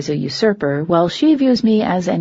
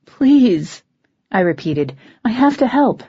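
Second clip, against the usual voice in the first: pleading; 4 semitones higher than usual. Acted. Begging again.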